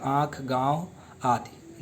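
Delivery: slow, drawn-out आँख and गाँव with the vowels sounded through the nose; nasal demo. Shown as a demonstration. Teacher showing students the nasal sound, slow and drawn out. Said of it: "नाक और मुख दोनों से बोला जाएगा".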